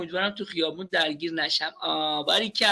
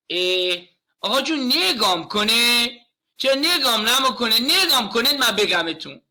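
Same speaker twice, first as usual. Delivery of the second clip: put-on a child's whiny plea in a Yazdi accent, a bit louder; 3 semitones higher, 4 dB louder than usual. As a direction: imitate a little boy in a Yazdi accent begging for attention.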